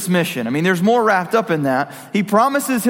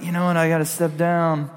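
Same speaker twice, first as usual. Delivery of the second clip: put-on English accent; 4 semitones lower, 3 dB quieter than usual. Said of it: "but with an English accent".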